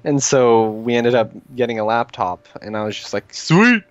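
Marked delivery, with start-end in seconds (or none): 3.3-3.8 excited. Retold or imitated. Retells happy laptop purchase.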